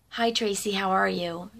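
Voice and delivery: retold friendly greeting, kept gentle; understated kindly hello in retelling; genuinely kind. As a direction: greet her kindly, without fuss. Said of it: "Like, genuinely kind".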